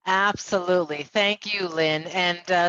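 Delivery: rough, crackly audio; grainy voice. Real, not acted. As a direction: voice breaking up grainy. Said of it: "my voice sounds grainy".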